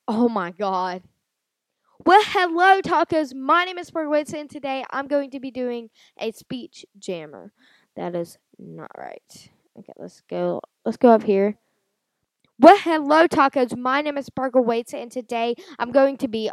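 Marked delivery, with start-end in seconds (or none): 2.0-7.5 high put-on voice. Silly intro into speech jammer. 12.6-16.5 high put-on voice. Repeats silly intro.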